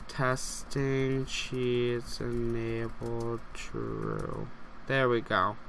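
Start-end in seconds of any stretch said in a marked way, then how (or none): 0.1-4.5 Testing cheats enabled spelled out very slowly, word by word; slow dictation. Shown as a demonstration. Player retyping the cheat code after a failure, slow careful dictation. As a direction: say each word slowly as you type it. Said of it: "Let's try it one more time".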